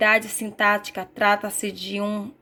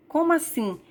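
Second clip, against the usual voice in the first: puzzled question; 7 semitones higher than usual. Shown as a demonstration. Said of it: "Observe alguns exemplos de frases".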